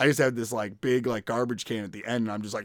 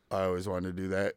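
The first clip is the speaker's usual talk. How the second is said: lower, softer wistful imitation of Rick; imitating Rick; 4 semitones lower, 5 dB quieter than usual. Retelling Rick's words to the podcast co-host, lower and softer. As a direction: say it low and soft as Rick did, a touch dreamy. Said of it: "that's exactly how he said it".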